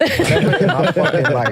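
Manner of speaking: slow, laughing, drawn out; laughing disbelief. Real, not acted. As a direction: stretch it out through a laugh. Shocked teasing about expulsion.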